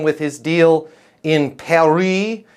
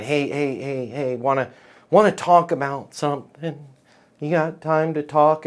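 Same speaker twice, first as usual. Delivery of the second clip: soft, low, tentative mock approach; hushed, lightly acted overture; mock sidling-up; 3 semitones lower, 5 dB quieter than usual. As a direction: imitate a client quietly sidling up. Imitates prospects slipping in a request.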